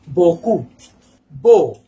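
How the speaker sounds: "beaucoup, beau" each with a closed "oh"; EAU said as "oh". Shown as a demonstration. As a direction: model "beaucoup, beau" separately, EAU as one vowel. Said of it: "you will pronounce O".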